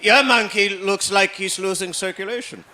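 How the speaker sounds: hammed-up dad, mock grave; a father scaring his son with a joke; dad's voice.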